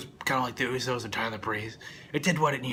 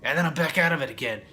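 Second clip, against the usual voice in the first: louder, faster mock dialogue; a hint of mocking Xavier; 3 semitones higher, 4 dB louder than usual. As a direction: toss it off sarcastically. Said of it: "he's like".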